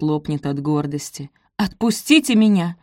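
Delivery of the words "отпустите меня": stern demand. A narrator's reading. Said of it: "повторила Софи".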